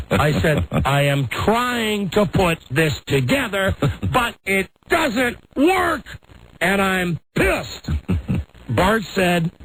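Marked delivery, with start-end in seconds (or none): 0.8-7.9 slow fuming. Retold or imitated. Retold angry reply to son.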